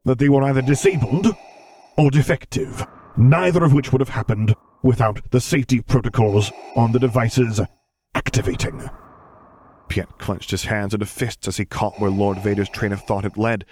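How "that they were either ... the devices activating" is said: louder, higher, cold fury; menacing. A narrator's reading. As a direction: spell out the sabotage darkly. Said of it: "the Dark Lord hissed out".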